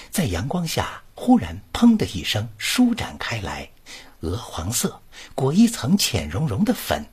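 expressive recital reading, flowing and shaped; model reading aloud. Shown as a demonstration. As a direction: read it like a broadcaster's model recital. Teacher reads passage aloud. (朗诵示范)

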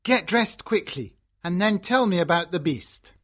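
mildly happy father's voice; a touch of fatherly cheer. A narrator's reading. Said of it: "says her father happily".

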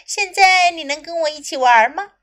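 high, loud hopeful frog; a little frog asking eagerly. Acted. Frog asks in translation.

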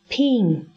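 pin said with a short i instead of pine; 示范错误读音pin; wrong example. Shown as a demonstration. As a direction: show the mistaken pin. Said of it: "很多人会把这个词读作".

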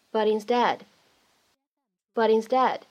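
"but instead" run together as "buddinstead"; linked with flap. Shown as a demonstration. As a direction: tap the t of "but" straight into "instead". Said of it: "我们可以做一个连读".

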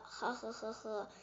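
hushed little "he he" laugh; acted giggle. Little dinosaur finds uncle funny, soft giggle. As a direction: laugh softly with a friend. Friends giggle over the fruit.

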